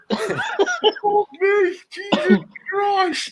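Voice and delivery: high, slow, laughing through the words; real laughter breaking through; laughing exclamation. Real, not acted. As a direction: gasp it out while cracking up. Laughing at the joke.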